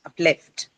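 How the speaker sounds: "Uplift" with the beat on LIFT; stress on second syllable. Shown as a demonstration. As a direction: put the weight at the end of "Uplift": up-LIFT. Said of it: "the second syllable".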